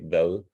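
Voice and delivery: "vel" ending on a Danish soft D; soft D voiced. Shown as a demonstration. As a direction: say "vel" with the final D softened almost to an L. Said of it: "But the D, if you like".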